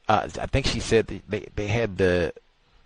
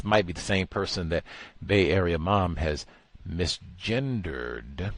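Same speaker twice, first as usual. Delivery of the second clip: usual speaking voice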